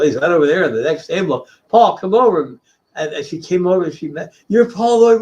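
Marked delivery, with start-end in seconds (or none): 1.7-2.6 raised, higher call across the booths; retelling a shout to a friend nearby. Retold or imitated. Calling Paul over to meet her. 4.5-5.2 high, amazed question in the woman's voice; retold fan meeting her idol, pitched high; imitating surprise. Woman meets the artist.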